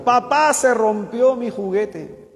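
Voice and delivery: put-on high, whiny little boy voice, slowing on the toy; crying child. Preacher voicing the king's son who runs in crying. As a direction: wail to Papá like a small child. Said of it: "entra el hijo menor del rey llorando".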